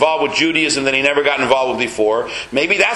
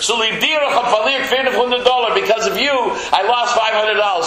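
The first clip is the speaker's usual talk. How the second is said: slow, higher, half-hearted angry complaint; a lightly acted huff at the parrot; mock angry; 4 semitones higher, slower than usual. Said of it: "he's so angry".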